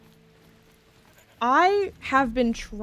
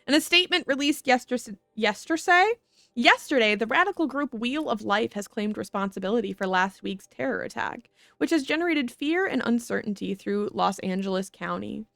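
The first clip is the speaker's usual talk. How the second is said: news read. Acted. Reads in-game news report aloud.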